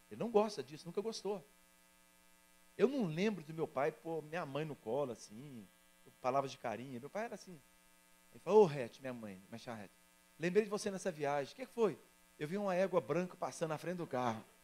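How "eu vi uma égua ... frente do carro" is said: normal talking voice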